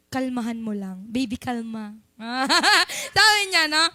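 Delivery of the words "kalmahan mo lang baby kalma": hint of a soft calming Lord; lightly voiced gentle reassurance; mild tender coaxing to calm down; soothing voice. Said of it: "Pero sabi ni Lord".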